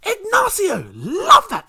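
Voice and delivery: very high, loud incantation; spell-casting voice. Acted. Host turning a name into a wizard spell, incanting. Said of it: "like a sick Harry Potter spell".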